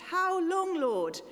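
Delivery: high, loud protesting cry; Habakkuk protesting the violence of his day. Acted. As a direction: hurl the question at God. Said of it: "he cries out in protest".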